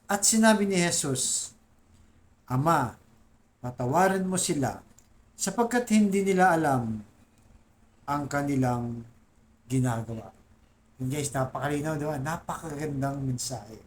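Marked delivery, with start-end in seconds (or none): 0.1-10.3 scripture reading. Acted. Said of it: "sa Lucas chapter twenty-three".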